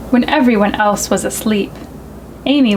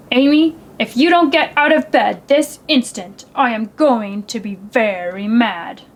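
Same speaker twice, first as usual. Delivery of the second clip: stern father. Acted. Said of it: "in his sternest father voice".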